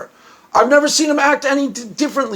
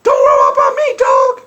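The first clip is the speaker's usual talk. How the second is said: gangster Stephanie; 13 semitones higher than usual. Retold or imitated. Imitating Stephanie going gangster on Josh, high mock shout. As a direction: shout it like a pretend street tough. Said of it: "she went gangster".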